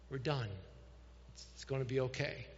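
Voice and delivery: acted father gently soothing himself; calm dad. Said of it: "I can't believe how calm".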